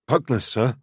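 high-pitched innocent youth; feigned innocence. A narrator's reading. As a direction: play the innocent pupil, voice lifted. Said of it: "as innocently as a youth with a shattered nose could".

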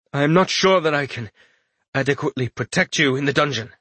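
a lightly voiced soldier, brisk and uneasy; the worried captain hurrying his caution; wary captain. Captain warning his lord, lightly voiced and brisk.

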